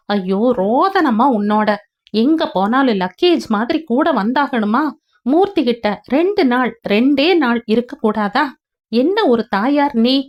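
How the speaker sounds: exasperated son snapping at his mother; irritated scolding. Acted. Son scolding his mother in the car, exasperated. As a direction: scold her, fed up.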